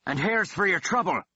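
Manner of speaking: gloating thug voice; taunting thug. Acted. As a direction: sneer it as you fire. Thug taunts before shooting.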